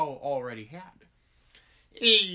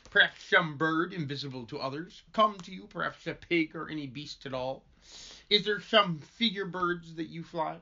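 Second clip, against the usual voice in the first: lisp. Acted. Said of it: "I can't do it with the fucking lisp".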